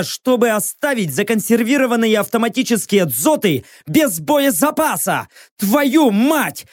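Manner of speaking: swearing, ending in a shout; furious. Acted. Hero screams at the System for fire support, furious. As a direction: lose it at the machine.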